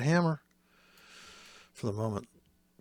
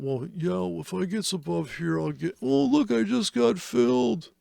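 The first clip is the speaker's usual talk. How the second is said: mock giddy newbie, much higher and louder; excited beginner; 10 semitones higher, 6 dB louder than usual. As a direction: play the naive trader thrilled at his fill. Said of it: "a beginner can only think about".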